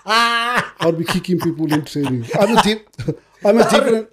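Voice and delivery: chuckling through words; laughing. Real, not acted. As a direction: laugh while saying it. Laughing at own joke.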